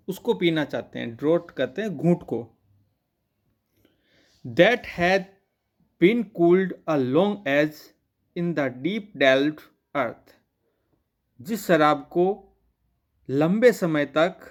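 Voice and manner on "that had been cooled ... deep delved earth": slow, measured line-by-line verse reading; poem reading. Acted. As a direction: read the verse out slowly, phrase by phrase. (धीमे, ठहर-ठहर कर कविता पाठ)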